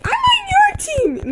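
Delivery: very high, slow squeaky kid voice mocking the brother; little brother's voice. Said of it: "he's like".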